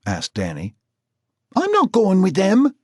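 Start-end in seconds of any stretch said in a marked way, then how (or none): 1.6-2.7 high, loud wailing refusal. Acted. Marcy refusing to go, wailing high and loud. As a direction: wail it out like a scared girl. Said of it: "wailed Marcy".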